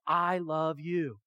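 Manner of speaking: God assuring his people of his love; tender. Retold or imitated. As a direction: linger on each word as a father would. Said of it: "He said".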